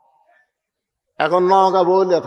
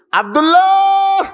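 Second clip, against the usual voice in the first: drawn-out name; 13 semitones higher, 3 dB louder, slower than usual. Real, not acted. Savouring the lovely name.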